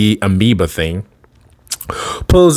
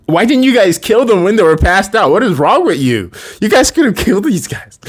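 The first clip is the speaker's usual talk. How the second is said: higher, exasperated chewing-out; scolding boss; 8 semitones higher than usual. Retold or imitated. Alien leader scolding his soldiers, exasperated and higher. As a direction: berate the useless soldiers.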